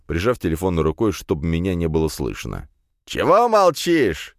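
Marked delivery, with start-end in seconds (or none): 3.0-4.3 high, loud, slow happy yell; cheerful drunken cry. Acted. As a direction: shout merrily into the phone. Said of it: "весело вскрикнул Эдик".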